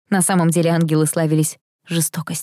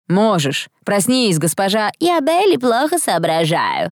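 high-pitched, exasperated outburst; exclaiming; 5 semitones higher, slower than usual. A narrator's reading. Angel urging his mistress to wake up, exclaiming. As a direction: cry out, pitch climbing, slow mocking finish. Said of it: "воскликнул Кайл".

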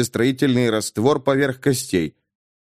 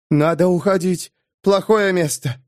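quieter than usual; 6 semitones higher than usual. A narrator's reading. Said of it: "говорила тише обычного".

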